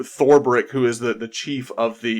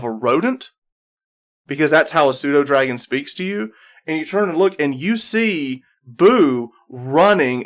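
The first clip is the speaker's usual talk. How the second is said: game master narration; 3 semitones higher than usual. Acted. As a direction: stretch key words to build suspense. Game master sets suspenseful scene.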